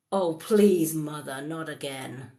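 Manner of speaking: put-on exasperated teen. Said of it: "if I got angry with my mum".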